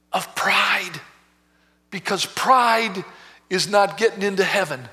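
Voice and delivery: slow, deliberate pleading prayer; earnest prayer. Acted. Preacher leads a prayer to be freed of pride, earnest pleading. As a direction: pray it out in measured, emphatic phrases.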